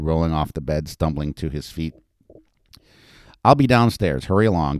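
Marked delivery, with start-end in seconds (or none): 3.4-4.8 firm, louder command; demanding. Acted. Betty demanding hungover Peter hurry along, firm and loud. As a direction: hurry him along firmly. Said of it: "Betty demanded".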